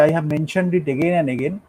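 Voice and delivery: slow da-DUM beat through the line; very slow metrical reading; iambic rhythm. Shown as a demonstration. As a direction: tap out each iamb slowly. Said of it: "Shakespeare যখন লিখেছে".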